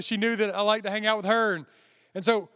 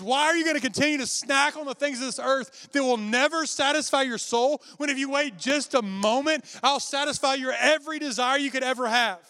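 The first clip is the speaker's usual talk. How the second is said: voice of God; 6 semitones higher than usual. Retold or imitated. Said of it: "He goes".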